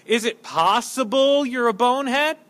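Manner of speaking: mildly mocking, rising question. Preacher voicing how we would say it, lightly mocking question. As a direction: put the insult as a pointed query. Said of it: "We would say things like this".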